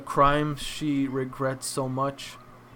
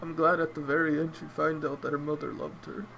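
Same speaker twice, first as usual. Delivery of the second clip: crying; 2 semitones higher, 4 dB quieter than usual. Real, not acted. Vlogger tearing up over Altair's fate, crying. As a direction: voice breaking through real tears, glad yet grieving. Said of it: "look at me crying again".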